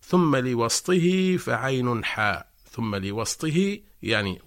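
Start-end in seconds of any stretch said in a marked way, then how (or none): 0.0-2.5 slow, louder chanted line of verse; recited verse. Shown as a demonstration. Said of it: "يقول ابن الجزري".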